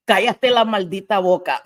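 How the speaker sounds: hint of a friend's sass; quoting her friend telling chat to shut up, lightly sassy; quoting a friend in Spanish. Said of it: "That's what you say".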